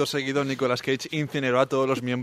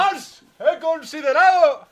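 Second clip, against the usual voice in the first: overacted Cage; 5 dB louder than usual. Imitates Cage defending himself.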